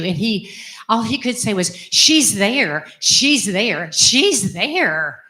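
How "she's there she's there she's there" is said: insistent, each one rising and falling; imitating father's awed repetition. Daughter imitating her father after his pilgrimage, awed and insistent. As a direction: stretch THERE, repeating it in wonder. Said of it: "said it over and over and over".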